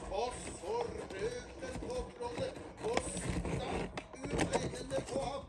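loud, high, thrilling telling; excited narration. A narrator's reading. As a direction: tell the fight breathlessly. Excited climax of battle.

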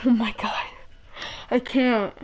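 breathless whispered awe; awed whisper. Real, not acted. Staring at the new item, awed whisper. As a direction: whisper it, stunned.

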